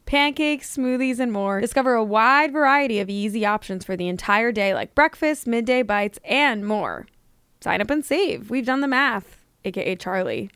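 bright commercial voice; ad read. Acted. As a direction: read the ad copy with energy. Sponsor ad read.

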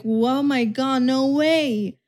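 slow, wide-eyed fake sympathy; mock gullible girlfriend. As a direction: play the fooled believer. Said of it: "And you're like".

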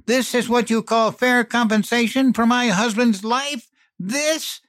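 high, loud outburst of grief and rage; a widow tearing into the company man; furious hiss. A narrator's reading. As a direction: spit the fury at him, voice way up. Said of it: "and hissed".

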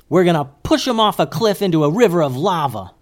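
put-on high, loud boyish outburst; eager yell. A narrator's reading. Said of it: "yelled Goose".

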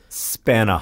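"Spanner" with the final r dropped; non-rhotic "Spanner", ending like "spannuh"; British-style spanner. Shown as a demonstration. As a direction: end "Spanner" on an uh, to rhyme with banana. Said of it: "that's supposed to rhyme".

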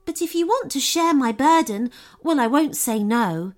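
kindly goblin woman, a little hesitant; a hint of a goblin, humbly accepting help; lightly voiced goblin woman.

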